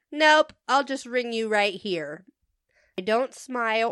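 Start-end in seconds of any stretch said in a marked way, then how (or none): 0.1-2.2 curt. Retold or imitated. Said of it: "swallow my irk and say".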